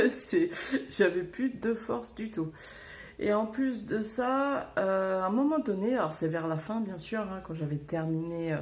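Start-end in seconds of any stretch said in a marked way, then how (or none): 0.0-2.5 laughing through the words; amused, chuckling while telling. Real, not acted. Laughing about her exhaustion. (en riant)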